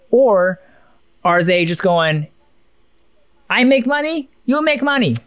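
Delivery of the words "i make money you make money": much higher mock voice of a deal-maker; lightly voiced Chinese businessman, teasing; mock China voice. Voicing China's business stance.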